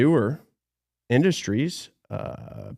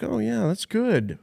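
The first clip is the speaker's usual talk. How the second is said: posing as manager; 5 semitones higher, 3 dB louder than usual. Retold or imitated. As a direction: sell himself slyly as the boss. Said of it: "act like I was the manager".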